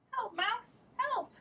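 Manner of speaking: squeaky plea for help; calling for help. Acted. Cat begging the mouse, high soft plea.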